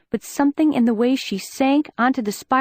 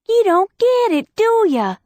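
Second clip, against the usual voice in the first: higher and louder, finally raising her voice; raised voice; 11 semitones higher, 4 dB louder than usual. Acted. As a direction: shout it out for the first time. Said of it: "first time I'd ever heard Liz raise her voice".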